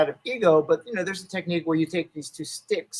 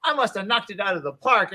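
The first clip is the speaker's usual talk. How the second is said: excited; 6 semitones higher, 6 dB louder than usual. Retold or imitated. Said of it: "I leave the studio thinking".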